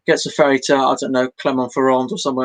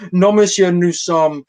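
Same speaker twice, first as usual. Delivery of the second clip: French reply; 3 semitones higher than usual. Retold or imitated. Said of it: "I started with a".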